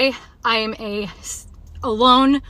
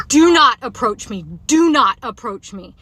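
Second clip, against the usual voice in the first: slow, louder, repeated warning; firm raised-voice command, words spaced out; retold yell; 5 dB louder, slower than usual. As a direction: warn him off loudly. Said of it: "like, yelling it".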